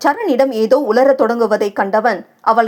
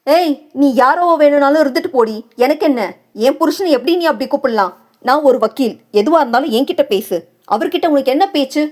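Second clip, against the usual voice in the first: hostile confrontation; 3 semitones higher, faster than usual. Acted. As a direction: stake your claim, hostile. Wife confronts the other woman.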